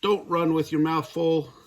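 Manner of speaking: a mother's light yelled warning; mild scolding holler. Acted. Mama scolds her son across the yard, mild holler. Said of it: "hollered Mama".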